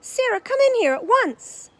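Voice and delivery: high, loud commanding call. A narrator's reading. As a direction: shout her in at once. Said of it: "he called in a loud voice".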